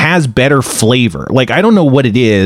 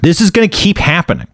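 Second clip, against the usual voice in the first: calm zen resignation. Retold or imitated. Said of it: "I had to get very zen".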